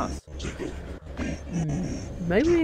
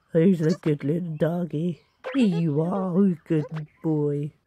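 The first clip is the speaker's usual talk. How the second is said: doting pet talk; 6 semitones lower than usual. Pretend. Pets a doggy buddy.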